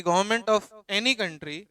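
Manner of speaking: slow, spaced dictation. Shown as a demonstration. Teacher dictating the definition to students, slowly. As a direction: drag each word out for writing. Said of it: "मैं आपको पढ़ा रहा हूं".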